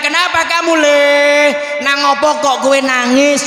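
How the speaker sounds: drawn-out Javanese elder; Kiai Mukhlis Nur. Retold or imitated. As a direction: ask a crying boy in lilting Javanese. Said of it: "Cara Kiai Mukhlis Nur ngono".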